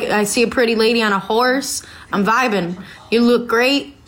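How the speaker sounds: lightly put-on Southern accent; casual hint of a Southern accent. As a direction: give him a touch of Southern twang. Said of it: "I just gave him a southern accent".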